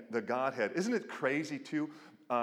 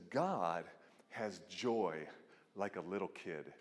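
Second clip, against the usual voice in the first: quiet; 7 semitones lower, 8 dB quieter than usual. Retold or imitated. Quoting Chesterton softly.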